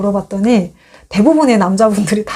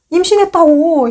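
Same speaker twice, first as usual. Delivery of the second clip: higher, louder repeat of the news; insistent repeat; 7 semitones higher, 3 dB louder than usual. Retold or imitated. Wife repeating news to a flat husband, insistently higher. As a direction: push the news at him again.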